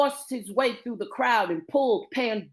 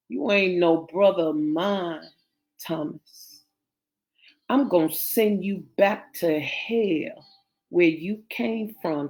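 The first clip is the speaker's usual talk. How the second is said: low, mildly menacing; cold menace; 3 semitones lower than usual. Acted. Sister about to shoot her brother, coldly menacing. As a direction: disown them in a low, cold voice.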